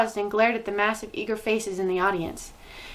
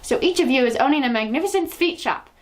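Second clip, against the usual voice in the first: witch crying out; 5 semitones higher, 4 dB louder than usual. Acted. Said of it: "cried out".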